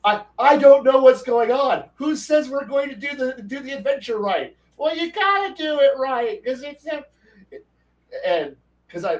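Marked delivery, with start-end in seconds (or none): 0.0-4.6 much higher, louder mock confusion; mock confused player. 4.8-7.0 mocking squeaky lecture; mock know-it-all.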